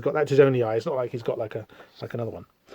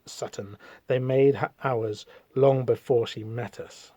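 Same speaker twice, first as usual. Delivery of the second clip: soft, low, measured menace; cold villain; 4 semitones lower, 7 dB quieter than usual. Acted. Villain tells father she is theirs, cold and soft. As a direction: speak low and quietly, with cold condescension.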